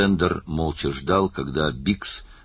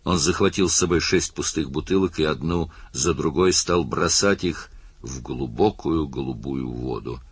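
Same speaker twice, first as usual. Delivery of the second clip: ordinary delivery, nothing marked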